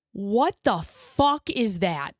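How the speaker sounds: slow, drawn-out stunned disbelief; half-whispered disbelief to herself; inner shock. Retold or imitated. Mother's inner reaction to the drooping eye.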